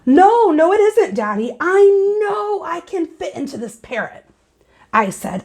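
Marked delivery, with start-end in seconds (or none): 0.1-4.3 put-on insistent child.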